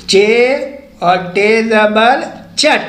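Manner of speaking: चे held apart, pause, then और टे ज़बर चट; name चे and टे one by one, then join them as चट; spelling-out demonstration. Shown as a demonstration. Teacher shows learners how to read चट, spelling it out. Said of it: "ऐसे पढ़ेंगे चट".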